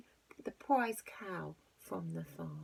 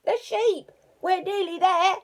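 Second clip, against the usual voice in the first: excited robber voice; 13 semitones higher, 11 dB louder than usual. Acted. Robber speaks.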